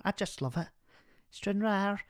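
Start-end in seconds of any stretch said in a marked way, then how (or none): 1.3-2.0 put-on caller's Stranraer accent, lifted in pitch; half-successful Stranraer accent imitation; attempted Stranraer accent. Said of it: "I can't do it".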